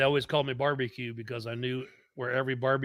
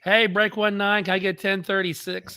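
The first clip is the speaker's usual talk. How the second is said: put-on young kid calling on the radio; eager little kid voice; 6 semitones higher than usual. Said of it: "I'm like".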